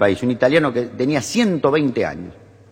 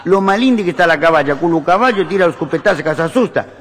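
put-on raised-pitch questioning in Italian accent; Italian immigrant; 4 semitones higher than usual. Italian gardener quizzing the ranch owner, Italian-accented puzzlement. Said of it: "el italiano lo mira al dueño y dice".

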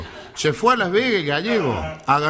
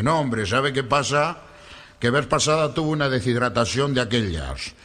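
put-on low, deliberate Spanish accent; slow explanation in a mock Galician accent; Galician Spaniard; 4 semitones lower than usual. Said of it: "Le digo, "Gallego". (acento gallego, grave y pausado)

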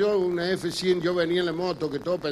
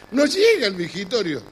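laughing repeat; 3 semitones higher, 4 dB louder than usual. Real, not acted.

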